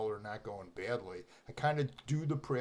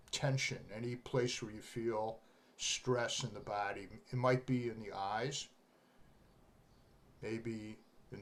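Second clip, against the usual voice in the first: guided meditation; 2 semitones lower than usual. Real, not acted. Meditation teacher guiding students to relax tension in the body, guided meditation. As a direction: ease listeners gently into relaxing, unhurried.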